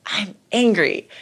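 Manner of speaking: imitating son. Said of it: "he'll be like".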